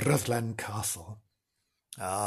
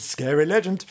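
spookier second take, a touch higher; spooky; 4 semitones higher, 3 dB louder than usual. Shown as a demonstration. Host repeats it, spookier this time. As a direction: make the legend sound scary.

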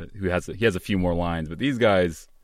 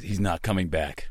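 put-on Australian accent; 4 dB quieter than usual. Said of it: "he says".

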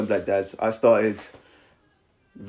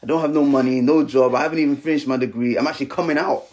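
higher-pitched, mildly frantic questioning; retold panic; 4 semitones higher than usual. Young dad retelling his night-time panic about raising a kid, mildly distraught. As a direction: replay the worried rush of questions. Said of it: "I just burst into tears".

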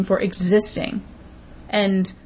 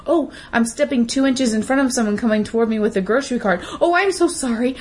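mock apologizer. Mocking shoppers who apologize in grocery aisles, hammed-up simpering. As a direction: lay the fake sorry on thick. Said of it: "you need to apologize for".

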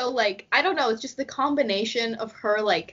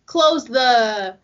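mom trailing off; 4 dB louder, much slower than usual. Retold or imitated. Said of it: "they won't say".

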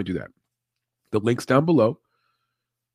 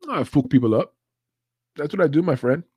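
louder, lifted mock-Irish brogue; imitated Irish accent; 5 semitones higher, 4 dB louder than usual. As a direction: play the cocky fighter in a rough Irish accent. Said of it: "I can't do an Irish accent".

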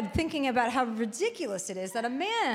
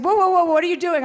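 mock alarm; 7 semitones higher, 9 dB louder, faster than usual. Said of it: "He's like".

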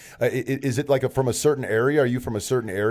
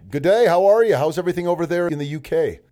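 hammed-up English "good day", higher and louder; playful put-on English accent, pitched up and loud; mock British greeting; 7 semitones higher, 4 dB louder than usual. Host greeting the London guest, in a mock British accent.

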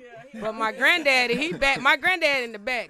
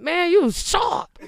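shouting the pastor's praise with a laugh; hammed-up loud praise; loud mock shout; 7 semitones higher, 8 dB louder, much slower than usual. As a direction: belt it like a proud preacher.

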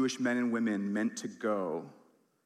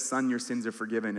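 gentle forgiveness. Acted. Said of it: "He says".

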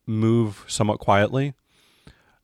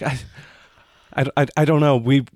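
lightly acted shaken girl, higher and louder; halting, stammered account of a horror, mildly acted; shaken witness; 4 semitones higher, 4 dB louder than usual.

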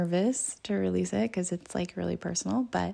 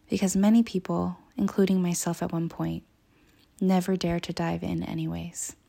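earnest reading of her own writing; reading aloud; 3 dB louder than usual. Acted. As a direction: read it like a heartfelt intro. Reads her book introduction.

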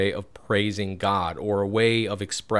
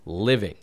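"living" set apart with emphasis; stress on living. Real, not acted. Preacher underlining a word of scripture for listeners, stressing "living". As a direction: lean on the word "living" as a key term. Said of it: "I want to emphasize on the word".

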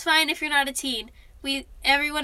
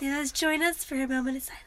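whispering; 5 dB quieter than usual. Pretend. Mock moment of silence.

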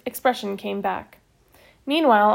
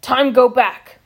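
urgent Little Bear; 7 dB louder, slower than usual. A narrator's reading. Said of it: "he said urgently".

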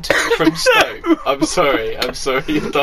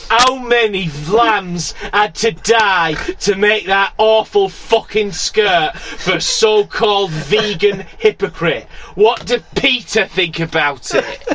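rough Hull accent put on for the comment; Hullish accent; 3 semitones higher than usual. Reading a rude online comment in a Hull accent. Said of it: "I'm gonna do a Hullish accent".

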